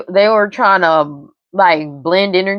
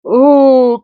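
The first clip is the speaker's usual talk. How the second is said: surprised; 7 semitones higher, 6 dB louder than usual. Real, not acted. Reacting to the cards.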